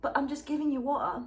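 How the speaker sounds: fanfic dialogue in a light put-on British accent; a hint of British accent on the dialogue; mock British accent. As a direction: read the lovers' lines in a half-hearted British accent. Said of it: "The accent is getting worse".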